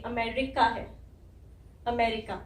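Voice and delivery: 'अमेरिका' as a-ME-ri-ka, short 'ri'; correct pronunciation. Shown as a demonstration. Teacher puts the sounds together, careful English 'अमेरिका'. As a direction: model 'अमेरिका' carefully with all four syllables. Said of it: "ये छोटी ई आ रही है".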